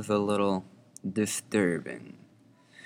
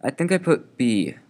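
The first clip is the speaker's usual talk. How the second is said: put-on kid voice; 5 semitones higher, 7 dB louder than usual. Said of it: "returned John".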